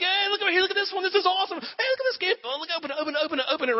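high, eager coaxing; giddy gift-giver. Retold or imitated. Dad at Christmas urging his kids, giddy high excitement. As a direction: urge the kids to open the gift, bubbling over.

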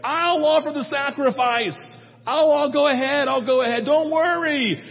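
high, loud no no no don't worry; hammed-up anxious king; nervous reassurance. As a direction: hurry to calm the men down. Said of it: "And Saul goes".

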